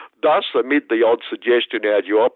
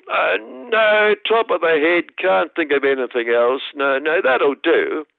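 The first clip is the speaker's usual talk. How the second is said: lightly voiced smug boss, a touch higher; self-satisfied chief executive answering the interviewer; Brad Banducci; 4 semitones higher than usual. Chief executive smugly answering the interviewer about value. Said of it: "but anything else?".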